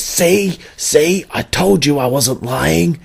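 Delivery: mock him as a smug know-it-all, drawn out; mocking imitation. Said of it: "sends me a picture of his ticket and says".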